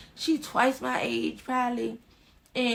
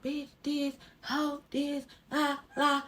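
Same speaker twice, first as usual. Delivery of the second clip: higher, softer singsong mimicry of a rant; mock ranting; 5 semitones higher, 3 dB quieter, slower than usual. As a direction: mimic her mouthing off in placeholder words. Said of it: "she go popping off at the mouth".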